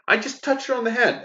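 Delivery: a confused man protesting his arrest; baffled outrage. Acted. Falsely accused guy pleading with police, high baffled outrage.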